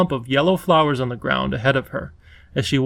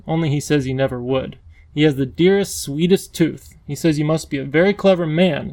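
put-on coaxing young girl. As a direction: talk him across, soothing and eager. Lindy chatting on the bridge.

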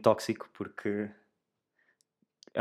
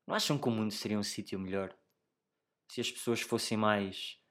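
whisper; 6 dB quieter than usual. Real, not acted. Confiding question to listeners.

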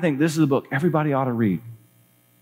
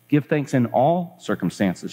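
slow, deliberate quotation; quoting scripture; slower than usual. Acted. Betsy quotes the verse to Corrie, slow and deliberate. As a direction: recite the verse slowly. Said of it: "she quoted".

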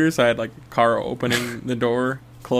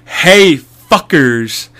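a loud, higher mocking "Hey" at the scammers; taunting shout; 4 semitones higher, 8 dB louder, much slower than usual. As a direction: yell a taunt down the phone. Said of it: "and I was just like".

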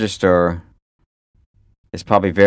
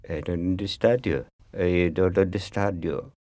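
feigned incomprehension; 6 dB quieter than usual. Acted. Feigning innocence to the actor.

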